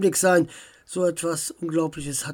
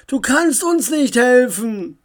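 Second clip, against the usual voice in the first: raised, louder voice; calling out; 6 semitones higher, 6 dB louder than usual. A narrator's reading. Uncle warning Samantha off, calling out. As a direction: call it out urgently to someone across the hall. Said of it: "rief Onkel Alfred ihr zu".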